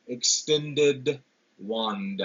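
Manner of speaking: "Extended" and "wand" set apart, final d sounded out; marked nd endings. Shown as a demonstration. Lecturer showing consonance to the class, endings sounded out. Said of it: "They both end with that nd".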